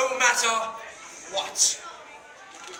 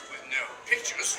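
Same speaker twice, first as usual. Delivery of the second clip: mock-scary hush; 10 semitones lower, 4 dB quieter than usual.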